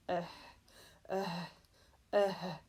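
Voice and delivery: panting engine. Acted. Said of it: "Can't you hear it panting?".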